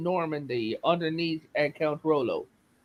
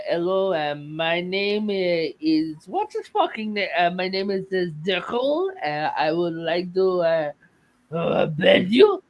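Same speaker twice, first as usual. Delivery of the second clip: mock French accent. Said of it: "he wouldn't have sounded English at all".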